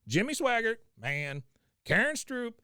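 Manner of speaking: names called out high and loud; preacher roll call. Retold or imitated. Bill listing preachers' names to Cotton, high and loud. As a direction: belt each name like a revival preacher. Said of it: "he goes".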